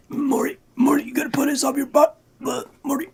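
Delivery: hushed, unvoiced mock ASMR; Rick ASMR whisper. Host parodying Rick whispering to Morty, ASMR whisper. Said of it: "Rick A S M R".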